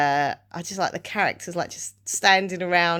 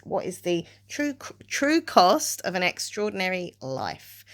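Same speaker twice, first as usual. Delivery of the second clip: measured book-blurb read; deliberate, dramatic pauses before key words; reading a blurb aloud. Real, not acted. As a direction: read the back cover out to viewers. Reads the book's back cover.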